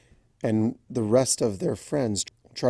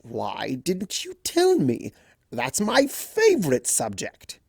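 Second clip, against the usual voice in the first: mock delight; 5 semitones higher, slower than usual. A narrator's reading. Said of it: "with a toothy grin".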